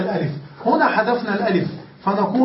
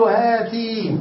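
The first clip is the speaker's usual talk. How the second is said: slow model example; much slower than usual. Shown as a demonstration. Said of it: "فنقول".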